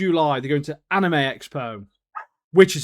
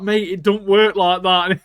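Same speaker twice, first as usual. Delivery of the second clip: slow, louder, higher objection; mock exasperated protest; 4 semitones higher, 5 dB louder than usual. Magic user setting villager straight, mock exasperated.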